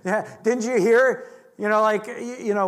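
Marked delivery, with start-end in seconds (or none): 0.4-1.3 louder mock mother's scold; scolding mom. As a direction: snap it like an annoyed mom. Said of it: "from your mom".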